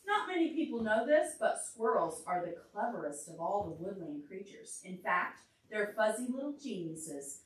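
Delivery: lively storybook reading; reading to a child. A narrator's reading. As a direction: read it aloud for a little listener. Reads picture book to child.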